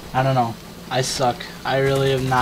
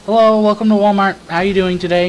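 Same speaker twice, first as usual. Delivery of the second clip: higher, louder scripted greeter welcome; sing-song store welcome; fake cheery greeter; 7 semitones higher, 6 dB louder than usual. Mocking the Walmart greeter's scripted cheerful welcome.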